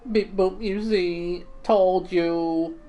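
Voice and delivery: a cheerful cooking robot, sure of himself; robot chef. Acted.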